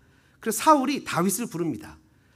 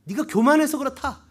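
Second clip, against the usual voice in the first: higher-pitched imitation of a telling-off; mock angry scolding; 5 semitones higher, 3 dB louder than usual. Eliab scolding young David, retold with a touch of anger. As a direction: lightly act out an older brother's scolding. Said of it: "큰형 엘리압이 다윗에게 화를 냅니다".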